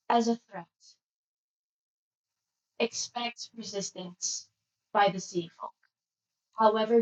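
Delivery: strong, even monotone attendant. Acted. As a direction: speak with no rise or fall. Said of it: "monotone voice".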